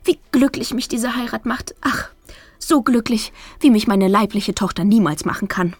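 high, gushing mother voice; a tearful mother, high and gushing. A narrator's reading. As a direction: coo it like a doting mother through tears.

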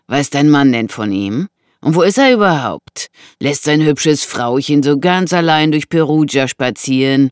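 loud, needling man; taunting intruder. Acted. Intruder taunts woman about her husband, mocking.

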